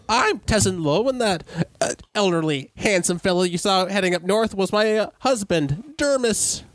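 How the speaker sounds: put-on high, proud old lady introduction; old woman voice. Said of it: "the half-elf, she turns".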